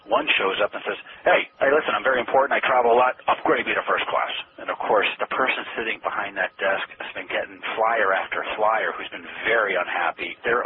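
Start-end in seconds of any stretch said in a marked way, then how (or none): 1.2-4.3 loud, self-important demand, pushing hard; pushy demanding traveler. Retold or imitated. A pompous flyer barking at the airline desk agent, loud and entitled. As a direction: lean on the desk agent like you own the place.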